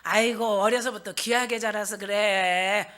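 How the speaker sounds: slow, unruffled excusing; drawn-out easygoing reply; placid husband. Acted. Husband excuses the other person to his wife, placid. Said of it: "화를 내는 게 아니라".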